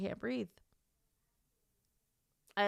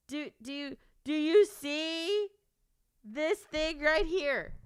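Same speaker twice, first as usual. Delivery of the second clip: crying voice; 5 semitones higher, slower than usual. Real, not acted. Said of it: "Why am I talking like this?".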